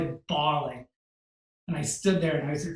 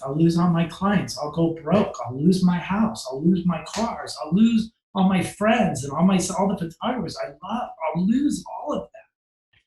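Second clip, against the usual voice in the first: panicky excuses; 4 dB louder than usual. Retold or imitated. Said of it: "trying to talk myself out".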